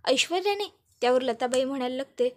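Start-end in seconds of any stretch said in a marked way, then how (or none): 0.1-0.7 sharp high rise of disbelief; can't believe it was her; shocked disbelief. Acted. Janaki asks her mother, shocked and disbelieving.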